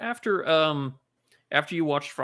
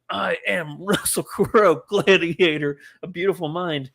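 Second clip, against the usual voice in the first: slower, louder proclamation with a laugh; grand announcement; 3 semitones higher, 4 dB louder than usual. Retold or imitated. Imagining Russell Crowe announcing himself, grand and slow. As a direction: declare it like a champion entering the arena. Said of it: "announce yourself to the world like".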